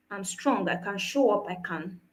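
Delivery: low, soft, fading to almost nothing; acted brave front, softly spoken; quiet self-assurance. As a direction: quietly insist you're coping, letting it trail away. Voicing the strong-one mask.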